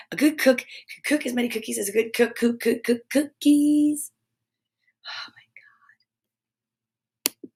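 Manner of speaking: breathless after a fast tongue twister; panting, winded after the twister; out of breath. Real, not acted. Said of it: "Sorry, I'm out of breath".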